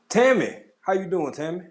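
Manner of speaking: high, loud call of her name; excited greeting. Real, not acted. Host spotting a viewer in chat, excited high greeting. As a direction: sing out the name in welcome.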